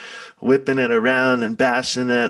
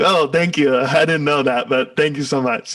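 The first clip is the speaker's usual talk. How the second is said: a touch louder, playfully sarcastic thanks; mock gratitude; 3 semitones higher, 3 dB louder than usual. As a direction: thank them with an amused ironic edge. Mock grateful reply to fans.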